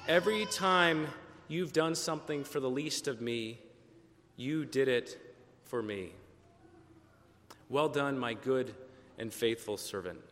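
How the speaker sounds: tender blessing. Acted. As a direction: bless him gently, letting it die away. Jesus blesses the faithful servant.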